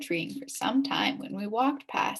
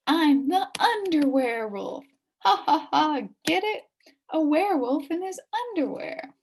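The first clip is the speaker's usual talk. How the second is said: higher and louder, laughing at his own pun; proud joking kid; 6 semitones higher, 3 dB louder than usual. Acted. Billy explaining his underwear wolf costume, gleeful. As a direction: show off the punchline.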